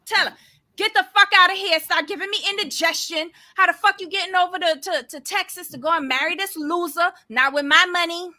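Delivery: voicing what mom should say; hammed-up parental tirade; imagined mother scolding. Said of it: "And I was just like".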